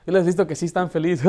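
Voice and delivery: ordinary talk, nothing marked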